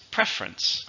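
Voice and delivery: "Preference" with the middle vowel dropped; two-syllable preference. Shown as a demonstration. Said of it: "when I said it, there's two".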